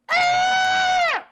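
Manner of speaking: loud, high-pitched creature shriek; creature screech. Acted. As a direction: let out a piercing monster cry. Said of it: "And then it goes".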